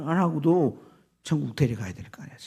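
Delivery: normal talking voice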